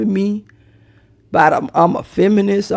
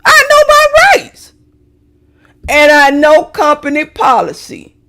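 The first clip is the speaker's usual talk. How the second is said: mock indignant employee; 6 semitones higher, 4 dB louder than usual. Mock defiant employee quote.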